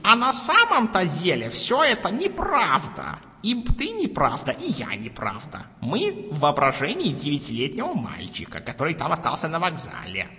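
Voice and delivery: slow, lightly voiced old man; a hint of a frail old man. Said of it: "он говорит".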